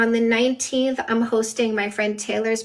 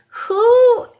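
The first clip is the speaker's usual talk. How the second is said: sudden loud; 12 semitones higher, 9 dB louder than usual. Real, not acted. Bursting out with a rhetorical question.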